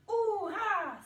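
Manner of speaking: hurrah yelled high and loud; shouted hurrah. Shown as a demonstration. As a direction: really cry out hurrah. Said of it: "crie hurrah".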